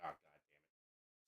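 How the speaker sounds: slow, soft, low exasperated mutter; weary groan. Retold or imitated. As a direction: sigh it out like you've had enough.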